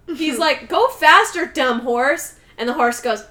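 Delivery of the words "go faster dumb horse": bratty yell. Retold or imitated. Michael yelling at the horse.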